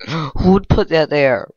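slow, drawn-out stunned question; shocked disbelief. Real, not acted. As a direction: let the shock stretch each word. Shocked at trap after dying.

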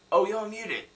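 high, loud mock discovery; hammed-up "aha" exclamation; mock realization. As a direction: blurt it as if suddenly spotting it. Mocks an instant mutant-spotting ability.

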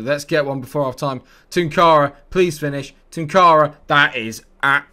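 will the striker to score; real excited urging shout; urgent pleading yell. Real, not acted. Urging a chance before half time.

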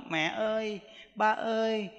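put-on soft, coaxing child voice, drawn out at the end; sweet pleading. Child sweet-talking parents for money, softly coaxing. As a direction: wheedle softly and sweetly, imitating a needy child. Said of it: "Nó ngọt lắm".

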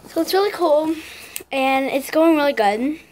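palate expander in mouth; slightly lisped articulation; speaking with braces. Real, not acted. Seen 2: Braces visible on teeth at +2.4 and +5.1; expander shown earlier.

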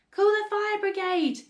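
high, loud cry for help; panicked call. A narrator's reading. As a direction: call across the yard in alarm. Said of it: "called Missus Cranky".

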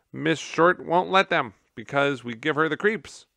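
high, loud, fast squeaky voice; a gerbil explaining the janitor's routine, piping. Acted. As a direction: pipe up eagerly.

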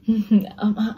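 brief mock sob with broken words; whimpered, half-whispered stammer; imitated sobbing. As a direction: imitate a man starting to cry. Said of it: "Now he starts sobbing".

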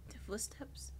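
breathy whisper, barely voiced; hushed whisper listening for footsteps. Real, not acted. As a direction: whisper so nothing hears you. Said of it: "why am I whispering".

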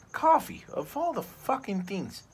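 sudden high yell of outrage; one-word cry of disbelief; outraged shout. Real, not acted. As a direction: blurt it out, indignant and loud. Angry rant about ruined coffee.

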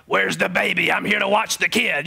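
a lightly voiced creepy old babysitter, only a hint of it; creepy old lady. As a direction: imitate a shady old lady at the door, barely changing your voice. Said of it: "decrepit old lady".

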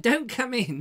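put-on high kid at the doorstep; child friend voice. Boy keeping his friend at the door, high child voice. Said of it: "It was like".

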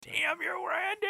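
high, rising hammed-up cry of rage; mock curse. Joining the bit against Randy, mock angry cry. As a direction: shake your fist at Randy.

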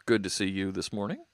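loud, bad Irish accent greeting; a hammed-up Irish lilt, booming out; mock Irish accent, loud and cheerful; terrible Irish accent. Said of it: "It's a terrible Irish accent".

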